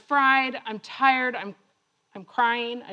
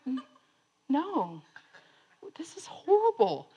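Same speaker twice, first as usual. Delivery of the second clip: mock sobbing; 5 dB quieter than usual. Sobbing runner answering congratulations in hotel lobby, mock tearful whimper. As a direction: squeeze it out through pretend sobs. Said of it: "I'm, I'm sobbing".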